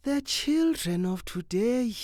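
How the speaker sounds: put-on slow, high disapproving old woman; murmured. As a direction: sigh it like a weary matron.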